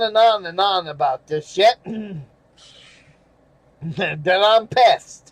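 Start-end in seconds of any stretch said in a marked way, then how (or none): 3.8-5.3 slow emphatic. Real, not acted. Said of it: "I'm really pissed".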